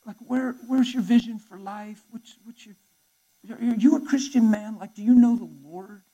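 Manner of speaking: loud, slowed heartfelt plea; earnest appeal. Retold or imitated. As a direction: reach out to him urgently. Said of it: "I said".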